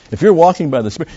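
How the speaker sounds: high, loud preaching climax; high loud insistent preaching; emphatic preaching. Acted. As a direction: drive the point home loudly. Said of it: "it makes it very emphatic".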